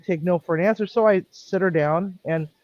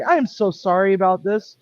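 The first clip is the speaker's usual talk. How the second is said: raised, pointed apology so others overhear; rather loudly; 4 semitones higher than usual. Retold or imitated. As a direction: make sure the couple hears every word. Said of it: "I said rather loudly".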